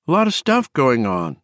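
high, wavering croak; Bobby. A narrator's reading. Exhausted woman explaining to her shocked friend, wavering croak. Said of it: "croaked in her wavering voice".

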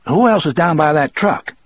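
tajam curiga, nada tinggi; suspicious warden. A narrator's reading. Moores questions them at gunpoint.

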